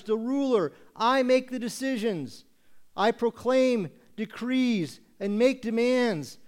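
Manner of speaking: high, loud mock-regal proclamation; puffed-up boss declaring absolute rule; self-important king. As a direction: issue decrees like a pompous ruler. Acts a self-important ruler issuing decrees.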